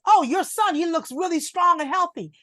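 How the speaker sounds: mock master praising. Voices the slave master.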